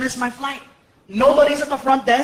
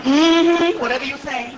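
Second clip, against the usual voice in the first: sassy dismissal; slower than usual. Retold or imitated. Clerk brushes off the late guest, sassy and dismissive. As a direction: brush him off with attitude. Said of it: "sassy clerk voice".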